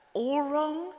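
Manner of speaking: high, rising disbelieving question; incredulous echo. Retold or imitated. Writer questioning mother's verdict on memoir, incredulous. Acting out own shocked reply.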